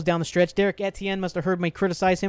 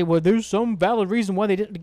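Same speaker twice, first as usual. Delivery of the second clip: mock apologist; 3 semitones higher, 5 dB louder than usual. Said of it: "So don't sit there and say".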